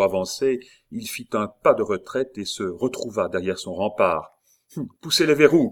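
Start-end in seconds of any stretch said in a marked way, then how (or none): 4.8-5.7 high, loud command; urgent forceful shout; shouted order. A narrator's reading. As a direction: yell orders to your men. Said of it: "cria Montsoreau".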